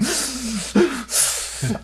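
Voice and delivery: sharp, high, choked intake of breath; a crying kid's ragged gasp; sobbing gasp. Retold or imitated. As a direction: gasp like you're fighting back sobs. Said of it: "frantically crying".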